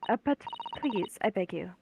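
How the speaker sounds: put-on light British accent, pleading; a hint of a British lady. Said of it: "I'll just do British for her".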